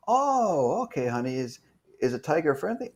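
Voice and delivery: a light imitation of a doting mom; mom's voice. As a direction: son mimics his mom asking about the tiger, lightly sweet. Son voices his mom on phone.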